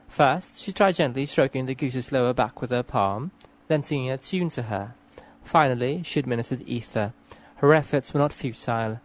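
measured, careful story reading; read-aloud passage. Acted. Reader narrating a vet treating a goose, measured read-aloud. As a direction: read it out clearly, phrase by phrase.

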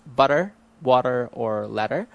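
"butter, water, or letter" in a Filipino accent; no R flapping. Shown as a demonstration. Speaker listing examples, "butter, water, or letter" with unflapped T. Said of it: "there's no R flapping in words".

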